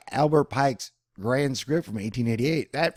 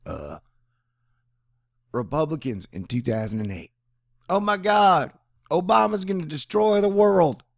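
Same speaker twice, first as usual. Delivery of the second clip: mock panicked Republicans; 5 semitones higher, 5 dB louder than usual. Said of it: "I said".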